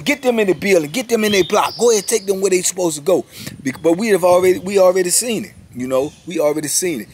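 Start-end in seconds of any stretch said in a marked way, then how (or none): 0.0-3.2 herd the witnesses inside fast; officers' orders. Retold or imitated. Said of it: "So now they usher us in".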